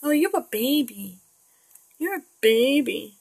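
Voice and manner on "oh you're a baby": normal talking voice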